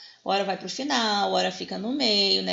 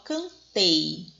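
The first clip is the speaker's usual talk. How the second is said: "cantei" split, weight on TEI; teacher showing the stressed TEI in "cantei"; stress on last syllable; 3 semitones lower than usual. Shown as a demonstration. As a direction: land firmly on the TEI of "cantei". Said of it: "sílaba tônica é no tei".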